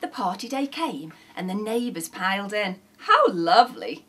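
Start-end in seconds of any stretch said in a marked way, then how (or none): 3.0-4.0 loud, gushing compliment; grinning delight. A narrator's reading. Neighbour arrives at the party, grinning delight. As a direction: say it through a big grin. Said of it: "said one with a big curly grin".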